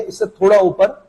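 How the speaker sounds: ordinary talk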